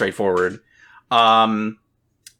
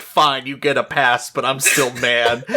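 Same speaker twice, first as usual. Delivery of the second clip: laughing grudging; 3 semitones higher than usual. Retold or imitated. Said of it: "and I'm like".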